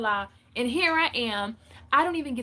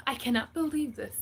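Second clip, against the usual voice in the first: laughing disbelief. Retold or imitated. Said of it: "I'm just like".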